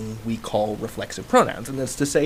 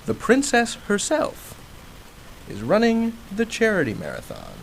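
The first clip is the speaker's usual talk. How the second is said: much higher, slowed on The princess herself; excited announcement; 8 semitones higher than usual. Shown as a demonstration. Teacher showing emphatic pronouns, excitedly high. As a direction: gush over the princess running. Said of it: "getting really excited as I say the following".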